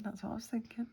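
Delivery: soft whispered repeat; whispering. Real, not acted. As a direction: breathe the words out.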